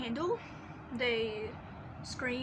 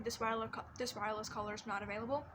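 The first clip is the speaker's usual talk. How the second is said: quick recorded operator voice; automated phone message; faster than usual. Retold or imitated. Imitating the phone's not-available message to her friend. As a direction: rattle it off like the carrier's recording. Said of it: "kind of thing".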